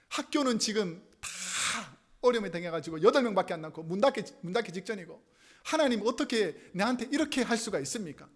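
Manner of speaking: mildly aggrieved protest to God; acted resentment. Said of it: "원망이 생기기 시작하는 거예요". (하나님께 원망하듯 따지는 말투)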